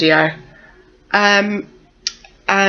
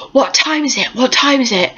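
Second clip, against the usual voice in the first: groggy asking; 6 semitones higher than usual. Retold or imitated. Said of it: "I said".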